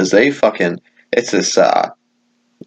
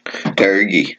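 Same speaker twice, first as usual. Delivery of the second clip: word pushed out on a burp. Real, not acted. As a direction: burp while saying it. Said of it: "I had a burp".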